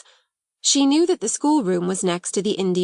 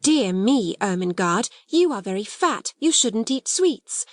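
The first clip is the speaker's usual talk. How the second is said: fussy aunt. Retold or imitated. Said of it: "My two aunts are always saying".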